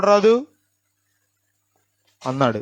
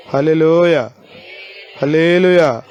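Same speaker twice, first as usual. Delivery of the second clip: hallelujah, called out loud with a falling end; 5 dB louder, slower than usual. Real, not acted. Preacher to congregation, loud hallelujah call. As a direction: call it out to the whole church.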